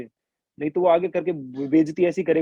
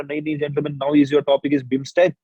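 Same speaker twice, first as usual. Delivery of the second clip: slow officer's order; 2 semitones lower, much slower than usual. Retold or imitated. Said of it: "बोला".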